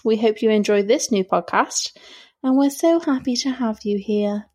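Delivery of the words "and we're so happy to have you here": sarcastic. Real, not acted. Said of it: "could you say it sound any more sarcastic".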